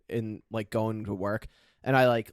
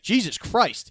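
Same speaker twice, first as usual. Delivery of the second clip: mock shocked; 9 semitones higher, 4 dB louder, slower than usual. Tow guy reacting to wreck.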